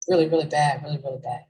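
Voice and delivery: talking while eating chips; crunching chips. Real, not acted. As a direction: mouth full of potato chip. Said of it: "Sorry for the crunching".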